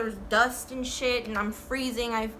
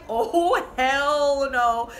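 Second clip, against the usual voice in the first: outraged; 2 semitones higher, 5 dB louder, much slower than usual. Retold or imitated. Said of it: "I'm like".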